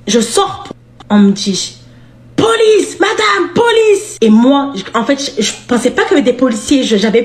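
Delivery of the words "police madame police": much higher, laughing mock shout; officer yelling at the car, higher and laughing; shouting police. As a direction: call out like a cop. Police calling out.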